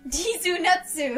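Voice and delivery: mock Japanese. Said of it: "Dee's Nuts".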